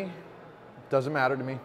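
fighting back tears, barely holding it; voice breaking. Real, not acted. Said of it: "don't know why my voice breaks up like this".

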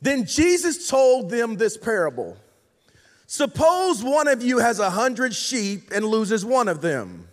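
slow, measured reading with weighty pauses; scripture reading. Acted. Preacher reading the lost sheep parable to the congregation, solemn scripture reading. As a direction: read it out slowly, letting each phrase land.

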